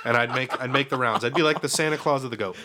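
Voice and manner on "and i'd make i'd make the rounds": laughing. Real, not acted. Laughing at own joke.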